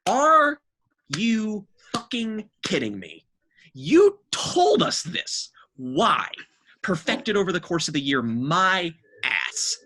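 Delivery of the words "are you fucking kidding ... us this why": whispered start rising into a high, slow, loud disbelieving cry; can't believe what he's hearing; incredulous outburst. Real, not acted. Reviewing the album, erupts in loud disbelief.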